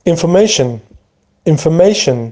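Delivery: information with a very light R; R barely pronounced. Shown as a demonstration. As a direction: say information with the R hardly sounded. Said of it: "آرش خیلی زیاد روش تلفظ نمیشه".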